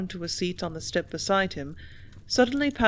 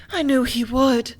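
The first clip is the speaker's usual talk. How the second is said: near tears; 6 semitones higher, 5 dB louder than usual. A narrator's reading. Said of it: "her voice showed imminent tears".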